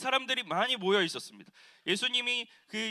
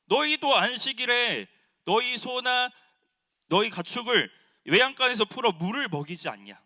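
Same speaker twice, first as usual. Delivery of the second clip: loud challenge; 3 semitones higher, 5 dB louder than usual. Retold or imitated. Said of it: "예수님께서 이렇게 말씀하시는 겁니다".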